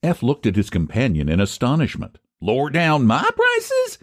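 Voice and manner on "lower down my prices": mild astonished repeat, pitched up; a touch of disbelief; startled outburst. A narrator's reading. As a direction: catch him off guard, lightly voiced. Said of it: "he ejaculated".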